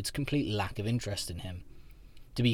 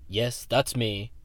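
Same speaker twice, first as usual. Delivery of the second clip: putting on a brave face; much slower than usual. Acted. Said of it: "smiling weakly".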